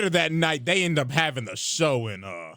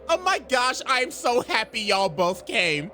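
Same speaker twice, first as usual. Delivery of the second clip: higher-pitched fake happy gush; syrupy put-on excitement; mock delight; 7 semitones higher than usual. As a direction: play an over-happy welcome, slightly hammed-up. Azula feigns delight to lure them.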